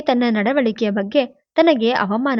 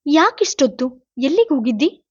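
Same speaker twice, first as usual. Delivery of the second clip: sharp-edged voice; 4 semitones higher than usual. Acted. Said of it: "ಕೂರಲಗಿನ ದನಿಯಲ್ಲಿ ಕೇಳಿದ".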